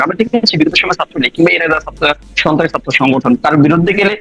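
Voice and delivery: echoey remote call audio. Real, not acted. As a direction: voice echoing down a video line. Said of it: "আপনি কথাটা একটু eco হচ্ছে".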